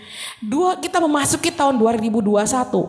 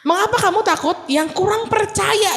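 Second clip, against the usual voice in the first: the Lord asking; 9 semitones higher than usual. Retold or imitated. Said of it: "ngomong dulu Tuhan tuh".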